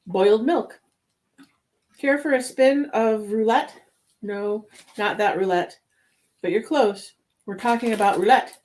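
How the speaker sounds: playful ad narration; voiceover read. A narrator's reading. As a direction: pitch the cake like a commercial. Voiceover product description.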